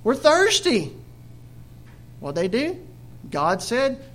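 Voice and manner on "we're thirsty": murmuring complaint. Retold or imitated. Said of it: "they murmured".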